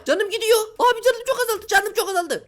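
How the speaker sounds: high, panicky cries as health drains; panicked. Real, not acted. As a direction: yelp in alarm at the health bar. (yüksek perdeden panik)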